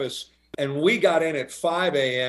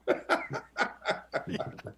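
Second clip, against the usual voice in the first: breathy laugh; 6 semitones higher, 10 dB quieter than usual. Real, not acted. Guest laughs at own story.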